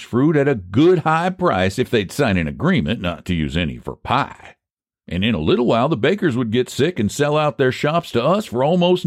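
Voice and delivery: high-pitched, lilting country schemer; folksy pie seller Phineas. Acted. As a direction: argue your case like a folksy pie man.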